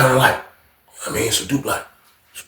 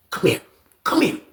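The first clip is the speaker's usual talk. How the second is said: quiet call; 5 semitones higher, 6 dB quieter than usual. Retold or imitated. Officer quietly calls Fred.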